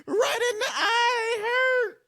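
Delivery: high words pushed through laughter; barely getting words out for laughing; laughing while talking. Real, not acted. Viewer describing the eye wound, still crying with laughter. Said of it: "I'm crying".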